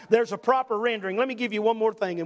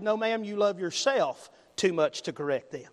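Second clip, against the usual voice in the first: retold compassionate reply, pitched down; 4 semitones lower, 3 dB quieter than usual. Preacher answering a mother who won't discipline, compassionate. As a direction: gently correct her, lower in pitch. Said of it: "with a compassionate heart and said".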